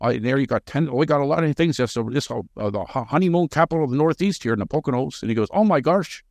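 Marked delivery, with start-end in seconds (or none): 0.0-5.2 lightly imitated Shamokin coal miner accent; a hint of Pennsylvania coal miner accent. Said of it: "his little Shamokin coal miner accent". 5.5-6.2 lightly imitated Shamokin miner spotting something odd; a touch of Shamokin local accent; Shamokin coal miner accent. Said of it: "his little Shamokin coal miner accent".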